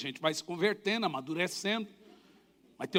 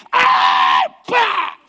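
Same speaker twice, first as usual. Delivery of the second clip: mock yell; 9 semitones higher, 14 dB louder than usual. Yells during the beating.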